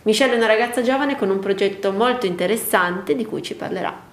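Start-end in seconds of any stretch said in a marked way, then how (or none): 0.0-1.9 muffled speech behind a mask; talking through a face mask. Real, not acted. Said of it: "Anche questa sera siamo con la mascherina".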